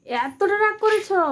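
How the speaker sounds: slow, playful fake shock at the sulk; teasing a small child with exaggerated surprise; mock astonishment. Coaxing a sulking child.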